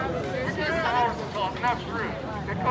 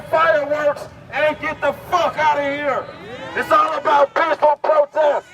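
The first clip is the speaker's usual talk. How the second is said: rallying shout; 3 dB louder than usual. Real, not acted. Commanding crowd.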